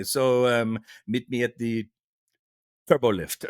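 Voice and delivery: long hesitant gap before "turbo lift"; pregnant pause. Retold or imitated. Non-native speaker reaching for sci-fi "turbo lift", pregnant pause. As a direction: stop short after "meet me at the", then say "turbo lift". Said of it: "there's that pregnant pause".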